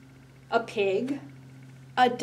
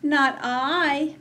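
high, loud kitty meow; meowing cat voice; 6 semitones higher, 5 dB louder than usual. Acted. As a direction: mew it like a cat. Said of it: "meowed the cat".

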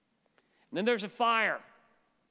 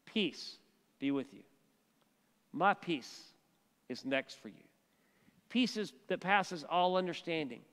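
tender reassurance; 2 semitones lower, 3 dB quieter than usual. Acted. Jesus reassures the frightened disciples.

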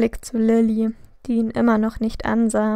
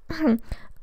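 awkward throat clearing; 5 semitones higher, 6 dB quieter than usual. A narrator's reading. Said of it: "lachte zögerlich".

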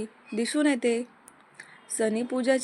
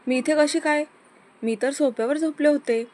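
confused muttering to herself; 5 semitones higher, 5 dB louder than usual. A narrator's reading. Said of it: "एकटीच बडबडत असते".

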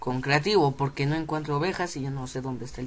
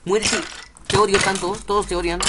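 annoyed, louder; angry at the game; 3 semitones higher, 5 dB louder than usual. Real, not acted. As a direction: snap at the enemy. Angry at mob. (enojado con el juego)

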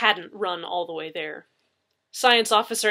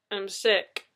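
proclaiming. A narrator's reading. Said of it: "Gina proclaimed".

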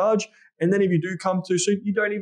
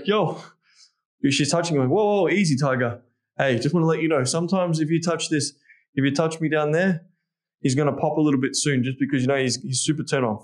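casual and playful; 2 semitones lower than usual. Shown as a demonstration. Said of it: "You, you say it like this".

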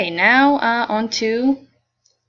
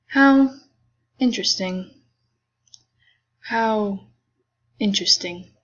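couldn't care less; bored tone. Acted. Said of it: "bored tone of voice".

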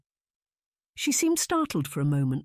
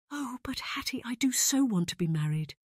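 plaintive wail; 8 semitones higher, 3 dB quieter than usual. A narrator's reading. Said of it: "Dorothy wailed yet again".

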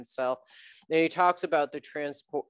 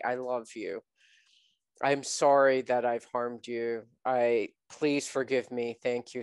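tender healing phrases; 3 semitones lower than usual. Shown as a demonstration. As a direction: speak gently to the part you have harmed. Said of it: "And you say".

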